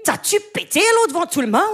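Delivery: Quebec accent, replayed to impress; Quebec accent again. Shown as a demonstration. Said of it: "Je vous la refais".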